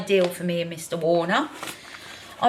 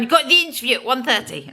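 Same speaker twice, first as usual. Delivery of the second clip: nagging inner voice; 3 semitones higher, faster than usual. Retold or imitated. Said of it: "it just keeps going".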